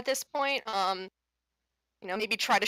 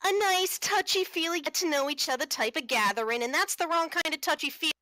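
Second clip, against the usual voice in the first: higher-pitched in-character telling-off; lightly acted, indignant objection; indignant player character; 5 semitones higher than usual. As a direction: cut in with a pointed complaint, pitched up. Player speaks as their character.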